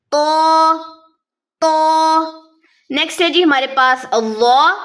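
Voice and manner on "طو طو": طو said thick with a full mouth; heavy طو. Shown as a demonstration. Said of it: "یہ خوب خوب موٹا پڑھا جائے گا".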